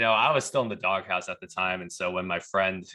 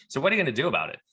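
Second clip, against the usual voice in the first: pointed, raised challenge; demanding question; 8 semitones higher, 5 dB louder, much faster than usual. Retold or imitated. DEA agent confronting the wholesaler, demanding. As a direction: press them for an answer, voice lifted high.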